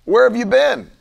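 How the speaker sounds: a hint of a woman calling out; eager woman. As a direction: greet him eagerly, pressing him. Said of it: "She said".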